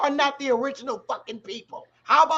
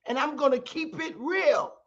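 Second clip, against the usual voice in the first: tearful; 3 semitones higher, 5 dB quieter than usual. Real, not acted. Tired, voice breaking.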